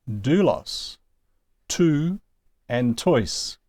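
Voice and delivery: "doulos" with a tentative up-and-down vowel; attempted circumflex accent. Shown as a demonstration. Teacher apologetically trying circumflex examples, tune demonstration. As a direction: try bending "doulos, two, and tois" up and down. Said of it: "hear my voice go up and down".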